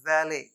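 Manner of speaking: वैले said "VAL-ay"; correct pronunciation. Shown as a demonstration. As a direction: silent T, ending वैले on "ay". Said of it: "ये my dear learner है". (वैले के अंत में टी चुप)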